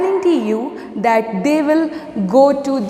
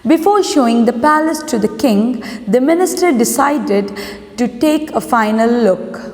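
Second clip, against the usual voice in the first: story read-aloud. A narrator's reading. Teacher reads a lesson to students, measured story read-aloud. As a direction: read the title and opening deliberately.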